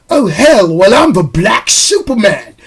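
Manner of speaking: rough imitation of a Cockney accent; loose, unsure Cockney accent; attempted Cockney accent. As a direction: have a go at a Cockney villain line. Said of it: "I don't know if I'm doing the right accent, but it's that Cockney accent".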